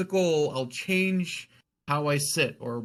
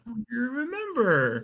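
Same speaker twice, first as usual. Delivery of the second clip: delighted surprise; 11 semitones higher than usual. Retold or imitated. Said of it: "And I was just like".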